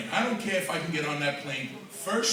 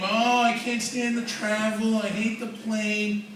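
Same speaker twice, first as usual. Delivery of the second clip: mock whiny complaint; 3 semitones higher, much slower than usual. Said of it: "you skinny people around here, you complain".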